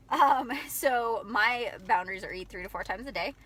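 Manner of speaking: hiccups breaking into the words; hiccuping. Real, not acted. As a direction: talk between hiccups. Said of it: "sorry, I have the hiccups".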